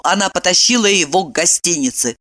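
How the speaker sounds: plain reading voice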